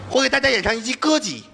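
歌曲 slurred into 歌集; big-tongue lisp. Shown as a demonstration. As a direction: singer with a swollen tongue, 歌集. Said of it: "我就是一个大舌头了".

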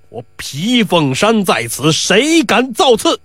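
slow, drawn-out commanding call; big shout. Acted. Pi Wu roars at the brawling crowd, slow commanding shout. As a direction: bellow it like a local bully. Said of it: "皮五大喊一声".

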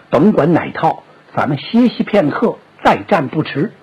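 anxious elder brother. Acted. Liu Bei voiced low.

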